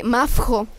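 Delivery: "Mafjo" with an f slipped before the j; imitated name mix-up. Daughter imitating mom's mix-up, saying "Mafjo" blended. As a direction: blend Mafer and Majo into "Mafjo". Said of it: "mi mamá luego me dice de que".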